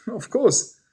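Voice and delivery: loud, high and eager; echoing of course. A narrator's reading. Mary blurting her excitement to Michael, loud and high. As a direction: blurt it out so it rings. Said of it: "My, my voice echoed in the gallery".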